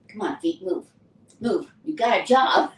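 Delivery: desperate self-urging, rising to a shout; urging feet to move. Retold or imitated. Urging her frozen feet.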